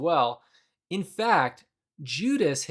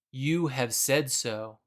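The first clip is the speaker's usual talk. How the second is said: quiet, slow and plain confirmation; just confirm it calmly; simple confirmation; 2 semitones lower, 4 dB quieter, slower than usual. Retold or imitated. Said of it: "it doesn't appear to be sassy".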